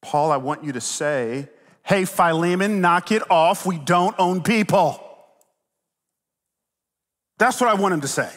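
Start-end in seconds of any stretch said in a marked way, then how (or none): 1.8-5.0 firm rebuke. Acted. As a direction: put your foot down as Paul. Voices the rebuke wanted from Paul.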